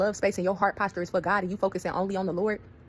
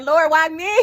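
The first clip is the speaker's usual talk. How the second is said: mock crying; 8 semitones higher, 9 dB louder, much slower than usual. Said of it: "I'm so done and crying like".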